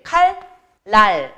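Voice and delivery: "칼, 랄" split into two separate syllables; teacher modelling "칼, 랄" syllable by syllable; pronunciation demo. Shown as a demonstration. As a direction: sound out "칼, 랄" with a clear l-l join. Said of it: "발음이 어떻게 돼?".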